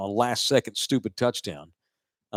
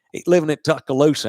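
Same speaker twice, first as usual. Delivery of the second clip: mock Alabama accent; 4 semitones higher, 5 dB louder, faster than usual. Sports host mimics the Alabama locals, mock Alabama accent. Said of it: "That's a different accent".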